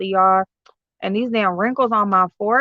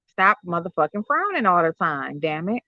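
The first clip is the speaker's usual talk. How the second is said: lower, trailing-off mock reproach; muttered self-scolding; 3 semitones lower, 4 dB quieter than usual. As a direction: grumble it at yourself, dropping away softly. Mock self-scolding, echoing mama.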